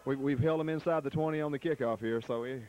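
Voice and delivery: breathless, panting between words; out of breath. Real, not acted. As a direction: talk while still catching your breath. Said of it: "I'm out of breath".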